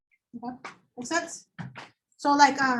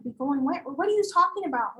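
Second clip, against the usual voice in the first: rising, puzzled "Be going where"; lightly baffled questions; mild mock confusion. Teacher retelling her confused reply, mild mock confusion. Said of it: "And I'm like".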